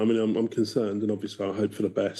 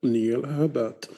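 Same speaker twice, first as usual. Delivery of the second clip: slow, stiff robot voice; 3 semitones higher, much slower than usual. Pretend. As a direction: say each syllable like a machine. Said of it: "Is that a good enough robot voice?".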